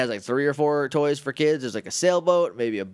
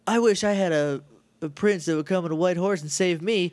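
mock helpless damsel, lightly pitched up; 2 semitones higher than usual. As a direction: imitate someone pining to be rescued. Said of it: "unnecessarily helpless Kim".

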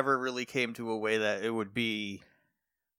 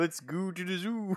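put-on French Canadian accent; 4 semitones higher, 6 dB quieter than usual. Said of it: "Why do you become French Canadian".

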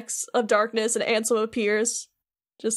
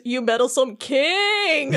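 slow, drawn-out villain sneer at the king; dramatic villain line; 2 semitones higher, slower than usual. Retold or imitated. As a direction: spit it out slowly like a cartoon villain. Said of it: "I wrote this down phonetically so I can remember how he said it".

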